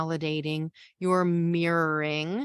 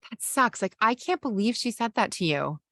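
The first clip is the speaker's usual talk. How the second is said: higher, sympathetic agreement; validating partner; 4 semitones higher than usual. Shown as a demonstration. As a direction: side with them, outraged for them. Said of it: "You want them to say".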